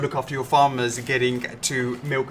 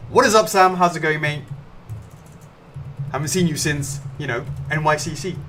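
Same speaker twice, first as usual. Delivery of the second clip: put-on light Birmingham accent, higher and louder at first; a cheery hint of a Brummie greeting; imitating a Brummie mate; 3 semitones higher, 4 dB louder than usual. Greeting a friend in his mate John's Birmingham accent, lightly done. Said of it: "He's a Brummie".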